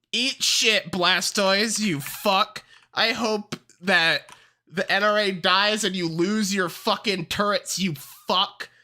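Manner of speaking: worked-up, half-joking tirade; mad rant. Real, not acted. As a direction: curse out the character like it wronged you. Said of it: "Sorry, I'm mad".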